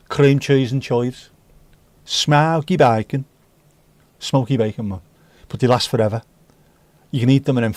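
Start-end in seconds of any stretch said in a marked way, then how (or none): 0.1-1.3 slow, broad Brummie; Brummie accent. Shown as a demonstration. Crisp fan reciting old flavours in a Brummie accent. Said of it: "said in a Brummie accent". 2.0-3.2 slow, drawn-out Brummie vowels; broad mock Birmingham accent. Shown as a demonstration. Crisp fan naming a favourite flavour in a Brummie accent. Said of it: "said in a Brummie accent".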